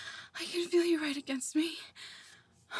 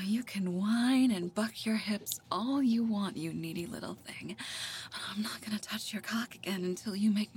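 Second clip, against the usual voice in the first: intimate whisper; 4 semitones lower, 5 dB quieter than usual. Acted. Woman teasing her partner in bed, soft whisper. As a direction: murmur commands close to the ear.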